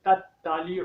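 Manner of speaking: तत्तालिउ said with a plain ta instead of tau; wrong ta sound. Shown as a demonstration. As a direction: demo the common mistake in तत्तालिउ. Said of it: "तौ की जगह पे ता पढ़ दिया जाता है". (तत्तालिउ में तौ की जगह ता की गलत आवाज़)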